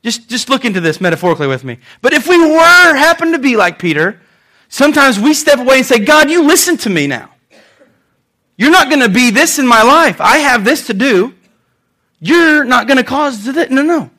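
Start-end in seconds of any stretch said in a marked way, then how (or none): 6.0-14.1 bossy, raised-pitch telling-off; mock-stern and insistent; scolding. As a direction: lay down the law like a threatening parent. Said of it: "Peter's literally threatening Jesus to be spanked".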